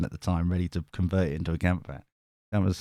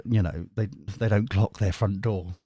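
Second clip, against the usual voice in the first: ordinary delivery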